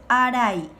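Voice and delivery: "Araí" said loudly, ending on a stressed í; loud teacher's "a-ra-Í"; model pronunciation. Shown as a demonstration. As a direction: model "Araí" for pupils to practise. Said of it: "Practiquen estas palabras".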